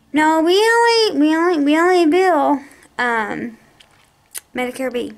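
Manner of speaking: lightly voiced clerk repeating herself; mimicking the billing clerk. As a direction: parrot the clerk's stubborn reply. Retelling the billing clerk insisting.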